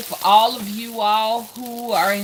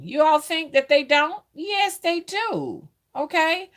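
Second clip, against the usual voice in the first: insistent; 10 semitones higher, 3 dB louder than usual. Real, not acted. Insisting to viewers.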